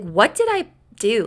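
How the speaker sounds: retold, puzzled self-questioning; baffled protest. Man obsessing over why she hates him, baffled protest. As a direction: ask it aloud, mildly exasperated.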